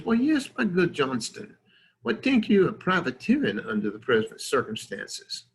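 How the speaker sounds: high-starting, hammed-up French accent; bad French accent. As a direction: attempt a French accent that slips toward Southern. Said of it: "my attempt at a French accent".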